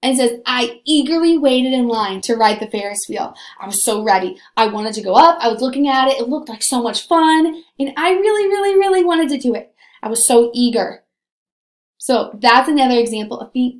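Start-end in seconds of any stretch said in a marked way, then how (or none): 0.5-11.0 eager. Shown as a demonstration. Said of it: "the word eager in a sentence".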